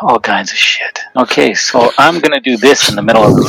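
breathy whisper right into the mic; heavy nose breathing. Real, not acted. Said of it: "you gotta stop breathing into the mic".

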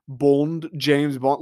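put-on a light, generic British accent on his name; British spy introduction done in a loose British accent; mock British accent. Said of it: "any British accent".

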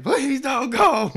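falsetto begging, loud and drawn out; slow squeaky loud plea; high pleading wife. Retold or imitated. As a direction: plead like a desperate wife in a cartoon. Wife begging grandma in story.

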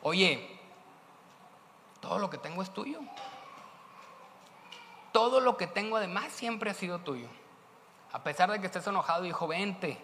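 father gently calling his son inside; tender father. Acted. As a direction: coax the son in kindly. Father gently invites older son.

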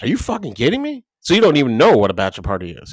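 high-pitched, fast mock outrage; mock disbelief. Friend to a sheltered guy, high disbelieving outburst. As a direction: act floored by his answer. Incredulous friend shouting at groom.

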